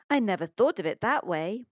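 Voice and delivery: put-on mildly wonderstruck child; struck by an idea. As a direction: sound newly amazed by the thought. Boy amazed by father's insight.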